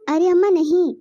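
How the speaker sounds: loud cry to stop her; daughter-in-law yelling at mother-in-law; alarmed shout. Acted. Bahu stops mother-in-law hitting.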